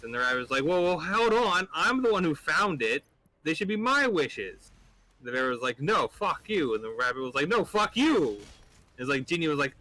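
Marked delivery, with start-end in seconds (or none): 0.6-4.7 higher-pitched, drawn-out rabbit objection; indignant protest. Acted. Rabbit who found the lamp objects to bear, indignant. Rabbit disputes bear's claim to wishes. 5.8-6.8 raised-pitch bear retort; a mock-quarrel comeback, pitched up a little; acted defiant refusal. Bear refuses the rabbit his wishes, mock defiant. 7.5-8.4 high-pitched rabbit retort; acted defiant comeback. Rabbit throws the insult back at bear, higher and defiant.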